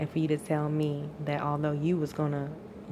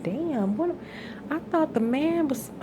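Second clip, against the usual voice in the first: exasperated disbelief; 10 semitones higher, slower than usual. Real, not acted. Venting frustration at absent partner.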